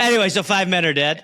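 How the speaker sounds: "Anyway" hit brightly up front as a breezy pivot; stress on Anyway. Acted. Pitching a sketch ending, "Anyway" punched dismissively. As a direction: lean on "Anyway", laughing lightly. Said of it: "really hit the anyway".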